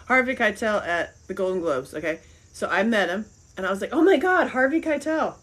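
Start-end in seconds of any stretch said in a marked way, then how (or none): 3.9-5.4 fangirl over the actor to his face; starstruck gush. Retold or imitated. Fan meeting Harvey Keitel at the Golden Globes, gushing.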